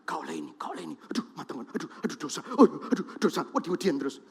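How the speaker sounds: soft, partly whispered fretting; hushed worried muttering; mock anxious fretting. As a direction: imitate a scared rule-bound believer.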